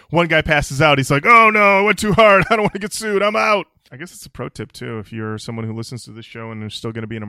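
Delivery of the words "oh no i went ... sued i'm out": mock panicked band leader.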